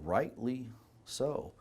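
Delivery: "rightly so" drawn out slowly and softly; slow emphatic repeat. Real, not acted. Doctor judging how future generations will view us, slow and emphatic.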